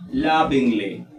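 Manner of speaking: lovingly, stressed at the start, falling away; weight on the first syllable of lovingly; lovingly modeled with a strong opening beat. Shown as a demonstration. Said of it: "mayor fuerza de voz está en love".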